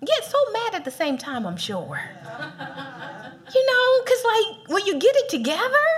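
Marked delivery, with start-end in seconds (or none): 0.0-2.0 God's voice. Retold or imitated. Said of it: "He's like".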